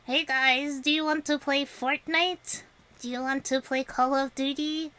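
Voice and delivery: put-on American gamer accent; mock American accent. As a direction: play a caricature American, asking the guys along. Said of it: "I speak it quite fluently".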